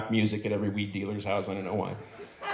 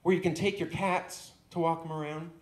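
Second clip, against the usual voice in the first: ranting dog; 3 semitones higher than usual. Acted. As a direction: let the grievance swell line by line. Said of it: "He says".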